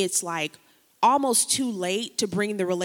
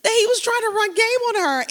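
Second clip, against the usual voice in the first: repeats the slang phrase high and laughing, a bit louder; 13 semitones higher, 6 dB louder than usual. Shown as a demonstration. Preacher amused at her own slang, laughing through it. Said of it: "I do have slang in my messages".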